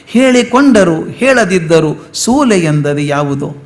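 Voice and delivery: slow, lilting recital of the verse; poem recitation. Shown as a demonstration. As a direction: savour each word like a song.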